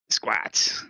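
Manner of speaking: low grinding rumbling rock voice; deep gravelly voice. Acted. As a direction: growl it like a rock creature. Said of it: "that deep gravelly voice".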